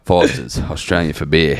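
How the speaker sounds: Aussie beer slogan delivery; mock Australian accent. Answering with a beer slogan, mock Australian accent. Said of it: "What other Australian stereotypes do we know?".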